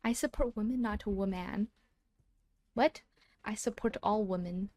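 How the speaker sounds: loud, excited stream talk; projecting loudly at the mic. Real, not acted. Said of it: "self-conscious about how loud I'm being".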